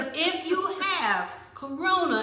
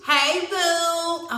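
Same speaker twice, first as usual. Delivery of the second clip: imitating Mimi; 6 semitones higher, 4 dB louder than usual. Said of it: "I did what Mimi does".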